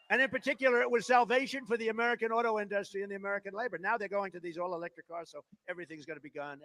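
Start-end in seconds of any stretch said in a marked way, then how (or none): 5.3-6.6 mock lament. Mournful lament on cars.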